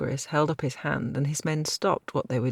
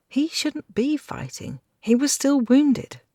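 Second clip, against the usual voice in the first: put-on worried girl; 11 semitones higher, 3 dB louder, slower than usual. A narrator's reading. Girl's worried thought.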